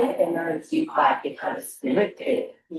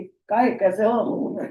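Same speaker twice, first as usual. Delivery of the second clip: mock Indian greeting; much slower than usual. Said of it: "और हम भारतीय".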